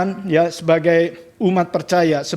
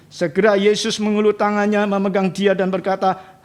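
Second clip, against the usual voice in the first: steady, measured Bible reading to the church; scripture reading. Acted. Reads Bible passage aloud. (pembacaan Alkitab yang tenang)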